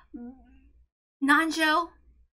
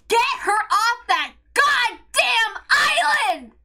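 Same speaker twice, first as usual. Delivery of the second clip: exasperated outburst; 2 semitones higher, slower than usual. Real, not acted. Outraged rant, pleading for the child.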